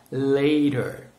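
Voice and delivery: careful "Later", r sounded at the end; model pronunciation. Shown as a demonstration. Teacher models "Later" for students to repeat, careful American pronunciation. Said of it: "repeat, guys".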